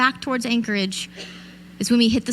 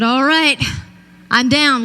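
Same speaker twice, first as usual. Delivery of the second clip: eager reply; 2 semitones higher, 5 dB louder, slower than usual. Retold or imitated. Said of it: "I said".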